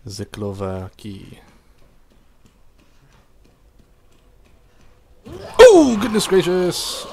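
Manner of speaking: slow, drawn-out zombie groan; zombie moan. Acted. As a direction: moan like the undead. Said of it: "practicing my zombie, my Zomba voice".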